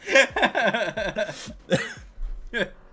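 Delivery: laughing. Real, not acted. Laughing after a joke.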